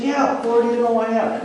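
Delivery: high-pitched defensive assurance; insistent reply. Retold or imitated. Peter assuring the Lord, high and insistent. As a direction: answer quickly back, pitch well up. Peter answering under pressing questions.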